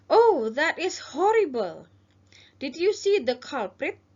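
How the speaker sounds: slow, mock shocked operator; officer role. Shown as a demonstration. Teacher as operator reacting to the robbery, mock shock. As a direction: lightly act the dismayed dispatcher. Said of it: "ini adalah petugas".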